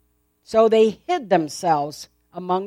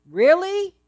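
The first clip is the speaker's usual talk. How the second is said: high, sly serpent voice; hissing serpent; 8 semitones higher than usual. Acted. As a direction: tempt her like a sly snake. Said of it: "he asked the woman".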